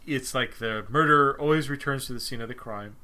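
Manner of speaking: talking through hiccups; speech broken by hiccups; hiccuping. Real, not acted. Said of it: "Excuse me, hiccuping".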